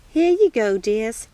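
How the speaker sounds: put-on serve tea like a kindly old lady; lightly voiced old housekeeper. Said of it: "she said".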